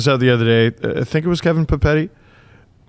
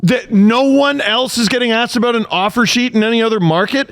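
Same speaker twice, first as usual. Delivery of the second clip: exasperated; 6 semitones higher than usual. Real, not acted. Exasperated disbelief continues.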